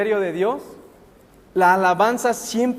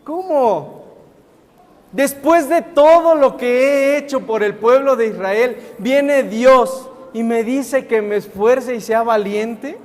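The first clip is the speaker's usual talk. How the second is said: incredulous Joshua. Acted. Joshua reacting to God's command.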